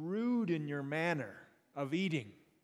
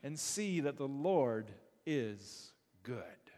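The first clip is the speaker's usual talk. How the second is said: slow hushed whisper; 3 semitones lower, slower than usual. Pretend. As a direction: breathe it like a secret. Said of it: "hushed close of invitation".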